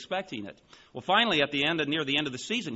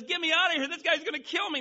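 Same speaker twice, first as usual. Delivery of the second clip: very high-pitched frantic plea; panicked yell. Acted. Man backed up by a lion, yelling in panic. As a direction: beg to be let out before the lion gets you. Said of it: "he yells one more time".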